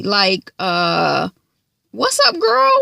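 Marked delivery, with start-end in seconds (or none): 1.9-2.7 very high, hammed-up singsong; mock crazy greeting. Vlogger imitating Ash being cuckoo crazy. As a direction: sing it out like someone unhinged.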